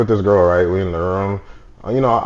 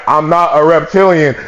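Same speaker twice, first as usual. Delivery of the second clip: slowly spelled-out "I'm not a reptilian"; slow, deliberate denial; slower repeat; 4 semitones lower, slower than usual. Retold or imitated. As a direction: say it slowly, as if complying with a demand.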